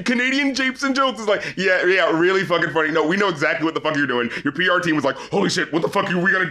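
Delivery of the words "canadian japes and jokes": higher, lightly mocking whiny excuse voice; a hint of a sheepish celebrity, hammed up; mock defensive rapper. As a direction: play the caught-out star pleading it was a joke.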